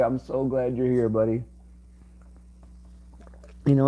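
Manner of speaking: normal talking voice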